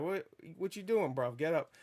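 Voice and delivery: lightly mocked British accent. Peter Parker telling his fallen aunt to rise, British accent. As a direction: put on a casual British accent. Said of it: "'Cause he's British".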